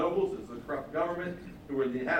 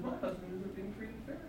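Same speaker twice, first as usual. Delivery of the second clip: complaining wife; 5 semitones higher, 9 dB quieter than usual. Retold or imitated.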